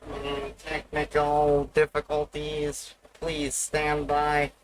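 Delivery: slow, even robotic announcer; stand-by message read like a machine, slow. Pretend. Streamer faking a robot technical-difficulties announcement, slow and even. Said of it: "sound like that Bugs Bunny robot".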